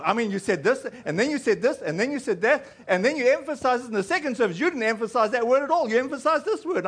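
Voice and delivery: imitating a rapid-fire critic; insistent nitpicking. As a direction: tick off each point, pitch climbing. Rachel lists his inconsistencies, retold.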